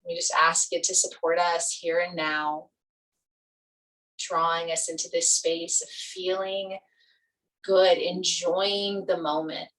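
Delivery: calm meditation guide with long pauses; guided meditation. Real, not acted. Yoga teacher leading students into Yoga Nidra, guided meditation. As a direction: ease them gently into relaxation, leaving space between phrases.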